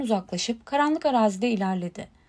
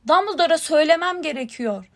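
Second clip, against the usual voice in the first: higher, louder, pressing; raised voice, desperate to get through; insistent shout; 4 semitones higher, 5 dB louder than usual. A narrator's reading. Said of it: "diye bağırdı Harry".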